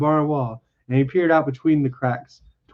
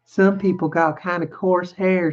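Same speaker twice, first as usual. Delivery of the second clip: higher, lightly self-satisfied woman's voice; lightly smug, in a wife's raised pitch; complacent; 5 semitones higher than usual. Acted. Wife talks about hair, mildly complacent. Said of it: "she said complacently".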